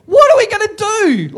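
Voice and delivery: high, loud, laughing despair; hammed-up panic through a laugh; laughing mock panic.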